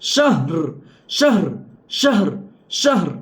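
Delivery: শাহর with audible h joined to final r; both letters sounded. Shown as a demonstration. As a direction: repeat শাহর, sounding h and r with no vowel between. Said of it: "আবার রোটাও উচ্চারণ হবে মিলিত অবস্থায়". (মিলিত অবস্থায় হা ও র উচ্চারণ করে শাহর)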